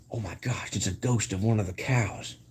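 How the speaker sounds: mock spooked. Pretend explorer sees a ghost.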